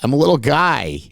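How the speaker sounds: lightly put-on small fellow; Little Red James. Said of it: "Little Red James is one of them".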